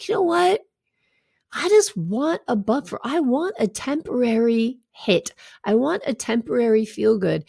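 craving voice. Retold or imitated. Voicing the buffering urge.

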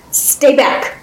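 commanding, with mild urgency; firm demand. Acted. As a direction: warn them off firmly. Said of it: "Guiomar demanded".

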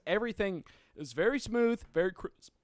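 talking through hiccups; words caught by a hiccup. Real, not acted. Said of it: "Got the hiccups here".

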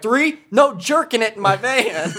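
high, slow, laughing through the line; quoting a movie character, laughing; laughing movie quote. Retold or imitated. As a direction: quote the rule while cracking up.

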